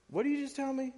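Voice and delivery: high, indignant disbelief; a king who can't believe his ears; enraged king. Retold or imitated. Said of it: "the king is a bit enraged".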